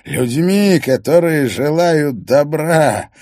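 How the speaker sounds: loud, high nasal preaching; nasal preacher voice. Acted. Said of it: "более гнусавое звучание".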